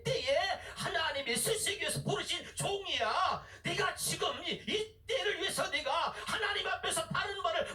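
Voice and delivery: retold devil's taunt, preached with rising pitch; mocking devil. Devil scolding a pastor who stays silent, mocking. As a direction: challenge the pastor as the jeering devil. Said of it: "이렇게 마귀가 조롱하는 거예요".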